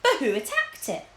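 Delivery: a nervous king asking timidly; frightened king. A narrator's reading. The king voiced.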